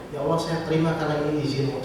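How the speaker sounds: soft, hushed surrender to God; quiet inner prayer. Retold or imitated. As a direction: pray it softly, to yourself. (doa lirih dalam hati)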